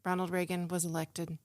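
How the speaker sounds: lightly voiced teacher breaking sad news; halting, with long pauses between phrases; kindergarten teacher. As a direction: carefully explain it to small children, subdued. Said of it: "my public kindergarten teacher trying to explain".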